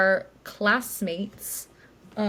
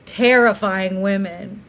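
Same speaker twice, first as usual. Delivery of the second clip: awed driver; 6 dB louder, much slower than usual. Retold or imitated. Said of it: "He goes".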